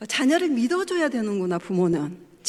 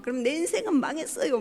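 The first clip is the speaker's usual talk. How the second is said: higher, imitated sulky anger; angrier mock outburst; 5 semitones higher than usual. Daughter angrily insists her life is ruined, imitated. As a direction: push it further, mock furious. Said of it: "막 더 화를 내면서".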